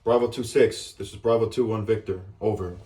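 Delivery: over walkie talkie. Shown as a demonstration. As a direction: call it in like on a field radio. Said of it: "a quick demonstration how this is gonna go".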